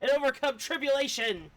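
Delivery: a hint of playful bickering voices; lightly voiced bickering characters. Streamer reading two characters arguing, lightly acted. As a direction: read both sides like a squabble. Reads character dialogue aloud.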